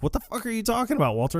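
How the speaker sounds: a squeaky, fast mock Donnie; high, fast Donnie impression. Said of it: "he's like".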